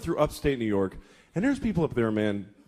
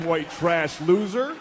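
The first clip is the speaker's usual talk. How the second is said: slow jeering shout; mock jeer; 2 semitones higher, much slower than usual. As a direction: drag out the insult with a sneer. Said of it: "He'll go".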